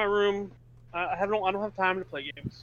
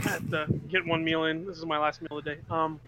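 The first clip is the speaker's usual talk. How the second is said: talking while eating; mouth full. Real, not acted. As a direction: speak through a mouthful of food. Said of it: "Sorry, I'm eating at the same time".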